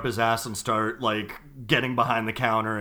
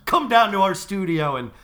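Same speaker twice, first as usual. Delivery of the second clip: wrestling promo; 3 semitones higher, 4 dB louder than usual. Pretend. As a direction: hype it up like a wrestler calling someone out. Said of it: "we just cut a wrestling promo".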